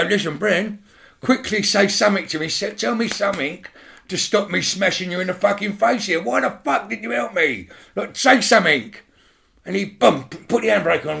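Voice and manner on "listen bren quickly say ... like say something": raised, higher voice demanding an answer; angry demand. Retold or imitated. Dave angrily confronting the mate who stayed in the car. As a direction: lean in and threaten him, heated.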